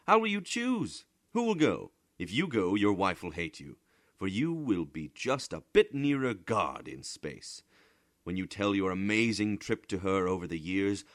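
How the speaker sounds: high, loud, scornful scolding; scornful lecture. A narrator's reading. Bramante scolding Bodini over his dream of Mars, high and loud.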